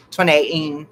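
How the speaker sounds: "twenty eighteen" said in a put-on British accent; playful mock-British pronunciation. Shown as a demonstration. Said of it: "You have to say it Britishy".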